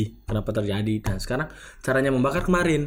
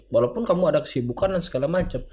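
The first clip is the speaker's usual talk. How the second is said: raised-pitch admonishing of a senior; retold reprimand; 5 semitones higher than usual. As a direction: act out ticking someone off, pitch easing down. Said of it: "Saya negor jatuhnya gitu". (menirukan teguran)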